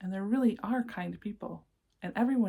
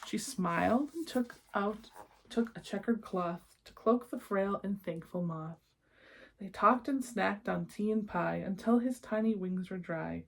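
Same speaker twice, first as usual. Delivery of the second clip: lilting rhymed read-aloud; storybook narration. A narrator's reading. Reading a rhyming picture book to children, lilting storyteller voice. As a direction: read the verses like a bedtime book.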